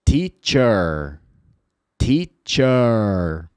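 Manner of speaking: teacher with a relaxed final er; model word. Shown as a demonstration. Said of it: "Professor se diz".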